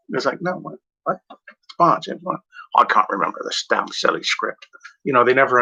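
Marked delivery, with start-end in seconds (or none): 0.4-2.4 Sean Connery impression. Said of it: "try to do the impression of James". 2.8-4.6 Sean Connery impression. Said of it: "try to do the impression of James".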